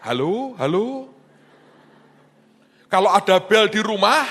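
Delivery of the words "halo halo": parrot calling. Retold or imitated. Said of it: "dia teriak".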